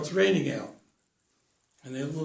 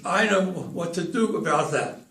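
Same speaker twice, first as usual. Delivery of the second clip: acted stutter. Stuttering Charlie offers his advice.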